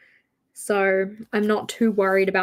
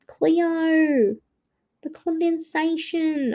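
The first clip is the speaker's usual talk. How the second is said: mock husband; 7 semitones higher, much slower than usual. Echoing husband's catchphrase.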